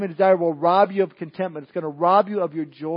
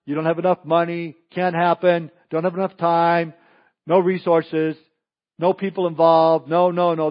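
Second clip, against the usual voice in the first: mock naysayer; 3 dB louder than usual. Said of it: "the people that always say".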